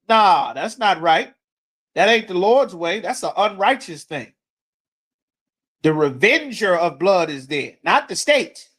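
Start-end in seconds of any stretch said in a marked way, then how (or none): none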